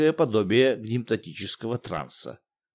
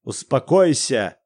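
a loud, slow angry cut-off; злой окрик; angry snap; 5 dB louder, slower than usual. Acted. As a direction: shut her up harshly. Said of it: "Неожиданно зло оборвал".

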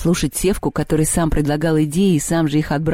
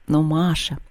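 bewildered. Acted. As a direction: say it slightly at a loss. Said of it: "растерянно сказала Лёля".

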